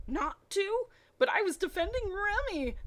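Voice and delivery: high guilty whine; sheepish excuse. Acted. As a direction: protest like caught schoolboys. Two men caught dueling, excuses.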